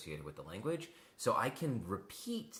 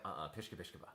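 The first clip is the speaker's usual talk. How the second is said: fake foreign language; 2 semitones lower, 8 dB quieter than usual. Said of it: "And I was like".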